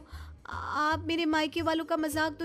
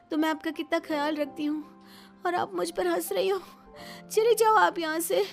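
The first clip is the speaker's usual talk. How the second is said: hurt and angry; 7 semitones higher than usual. Acted. Sick daughter-in-law sending mother-in-law away, angry. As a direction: order her out, pitch raised. Sick woman orders her out.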